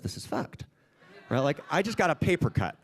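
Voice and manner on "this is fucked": whispered inner thought. Retold or imitated. Retold inner thought as child.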